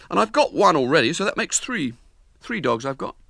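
a hint of a proud boy; boasting boy. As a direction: show off to the girl. William boasting.

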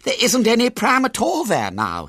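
high, loud, panicked report; horrified. A narrator's reading. Henry back from the shop without the pram, horrified. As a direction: break the news with pitch shooting up in horror. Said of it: "pale with horror".

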